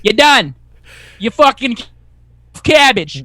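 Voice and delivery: loud, tough Boston guy picking a fight; Boston accent. Retold or imitated. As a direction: bark it out in a thick Boston accent. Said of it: "That was a pretty good Boston accent".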